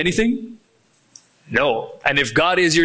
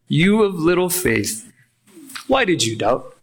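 genuine question. Shown as a demonstration. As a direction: ask it truly wanting to know. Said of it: "This is a genuine question".

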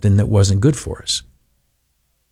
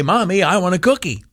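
whiny tantrum; 8 semitones higher than usual. Pretend. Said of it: "drop to the ground and kick our hands and feet".

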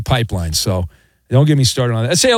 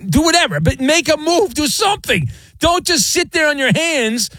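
raised pitch, urgent demand; high-pitched rant; 11 semitones higher than usual. Real, not acted. Host ranting demanding a trade.

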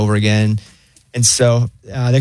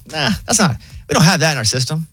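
lightly voiced breezy AI, higher; a hint of the laid-back phone assistant; chill robot operator; 5 semitones higher than usual. Pharmacy AI turns caller down, casually chill. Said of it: "like, so chill".

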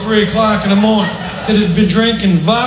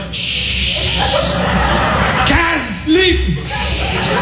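shushing whisper; 5 semitones higher, much slower than usual. Retold or imitated.

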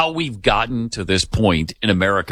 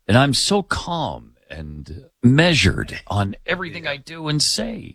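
fakey, phony smile. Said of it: "that same fakey, phony smile".

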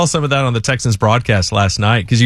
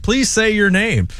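slow, higher-pitched plea; careful polite request; 7 semitones higher, slower than usual. Retold or imitated. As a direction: ask it slowly and pleadingly. Acted request to player.

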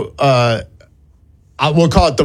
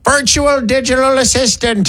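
higher, odd computer-like voice; weird voice; 5 semitones higher than usual. Acted. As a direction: sound like a digital assistant. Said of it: "The voice is getting weirder".

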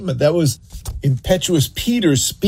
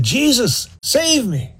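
desperate cry; 8 semitones higher than usual. Retold or imitated. Peter sinking, cries out.

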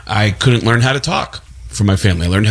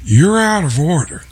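raised, intense Al Pacino voice; Al Pacino impression; 6 semitones higher than usual. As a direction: bark it like Pacino in a courtroom rant. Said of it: "me as Al Pacino".

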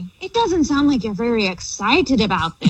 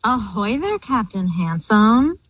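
pirate voice. Pretend. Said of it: "the theme of talking like a pirate".

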